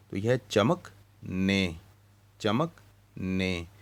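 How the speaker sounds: चमक ने split into chamak and ne, with a pause between; split syllables. Shown as a demonstration. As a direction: break चमकने into two parts: chamak, ne. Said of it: "दो हिस्सों में तकसीम कर लें". (चमक-ने अलग अलग बोलें)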